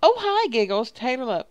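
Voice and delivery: high, loud, gushing greeting; game character voice. Acted. Player voicing a character's hello, high and loud.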